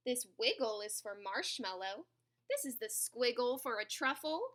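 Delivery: animated picture-book narration with stretched key words; story read-aloud. A narrator's reading. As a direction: read it clearly to young children, savouring the words.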